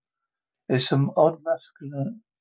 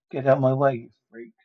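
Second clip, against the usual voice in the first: shouted order; 4 dB louder, faster than usual. Acted. Daywalker fleeing the morgue.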